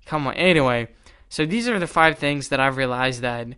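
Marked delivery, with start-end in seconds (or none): 0.0-0.3 much softer sigh of come on; hushed come on, man; quiet exasperation. Retold or imitated. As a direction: mutter it in disbelief. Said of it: "I'm like".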